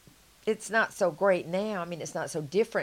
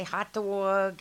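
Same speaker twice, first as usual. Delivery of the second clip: a slightly raised, light New Jersey "hot dog"; New Jersey accent; 4 semitones higher, 5 dB louder than usual. Shown as a demonstration. Speaker mimics how New Jerseyans talk, in a light New Jersey accent. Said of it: "they talk like this".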